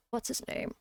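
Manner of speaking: muttered under the breath, unvoiced and soft; whispered to self. Real, not acted. Streamer trying to recall a name, whispering. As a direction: half-whisper while trying to remember.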